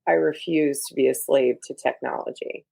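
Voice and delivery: a hint of Wednesday's cold deadpan. Wednesday turning down her roommate, flat deadpan. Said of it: "she's very, like".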